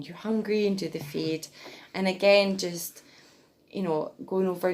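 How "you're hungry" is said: lightly higher coo; baby talk. Shown as a demonstration. Mum about to feed her baby, light baby talk. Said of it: "and then".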